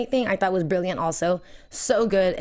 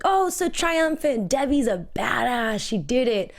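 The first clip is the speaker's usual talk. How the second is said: high, slow, hammed-up triumph; mock triumph; 4 semitones higher, slower than usual. Fan imitating her own reaction, mock triumphant. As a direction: crow it like a victory.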